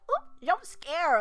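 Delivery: slow, high mock startle; mock jump scare. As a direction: act out a silly jump scare. Quoting the jump scare moment.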